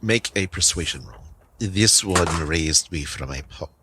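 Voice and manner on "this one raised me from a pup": slow, lightly voiced wolf; a hint of wolf, unhurried; talking wolf. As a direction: speak slowly as a loyal wolf. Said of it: "say to the wolf".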